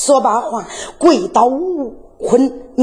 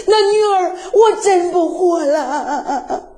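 crying plea, voice breaking, pitch up; weeping daughter; 2 semitones higher than usual. Acted. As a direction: sob out that she's been wronged. Daughter weeps, swears innocence. (女儿哭着喊冤)

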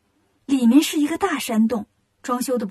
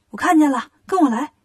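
louder call over the shoulder; calling back; 2 semitones higher, 4 dB louder than usual. Acted. Monkey King calls companions to follow the whirlwind, calling out. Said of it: "就回头喊".

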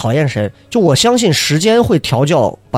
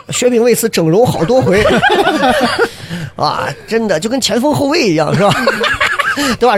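laughing through quote; 6 semitones higher than usual. Retold or imitated. Retelling Xiaohei's boast while laughing.

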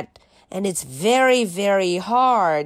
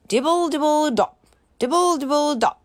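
1 raindrops pattering; 5 semitones higher, much faster than usual. Pretend. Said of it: "He can sound like the rain".

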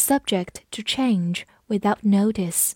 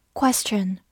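whispered repeat. Shown as a demonstration. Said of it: "复习一下今天学过的单词".

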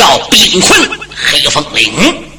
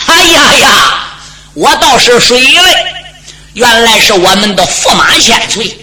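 mock surprise; 3 semitones higher than usual. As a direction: feign surprise at meeting the prince. 守将惊讶地招呼驸马. (故作惊讶的招呼)

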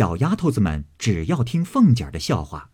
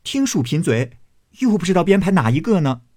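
teasing crowd; 7 semitones higher than usual. Acted. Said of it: "都说".

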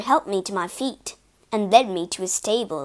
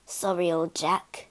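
softer, gentle goodbye; softer and lower, tender; comforting; 5 semitones lower, 6 dB quieter than usual. A narrator's reading. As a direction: soothe the horse kindly. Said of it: "Jerry comforted me".

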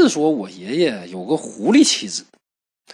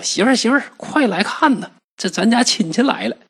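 calling out; 9 semitones higher than usual. Acted. Husband calls wife from afar.

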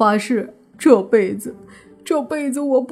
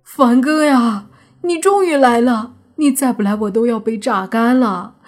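high, loud wail of relief; emotional, overwrought; 4 semitones higher, 4 dB louder than usual. A narrator's reading. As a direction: cry out to your rescuer, dragging the words, near tears. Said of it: "顿时激动地说道". (激动地带着哭腔高喊)

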